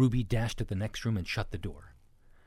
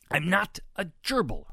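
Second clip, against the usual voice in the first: high, loud protest; indignant yell; 11 semitones higher, 6 dB louder than usual. A narrator's reading. Ruby corrects Baby pig's chant, yelling. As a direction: yell it, insulted. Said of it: "Ruby yelled".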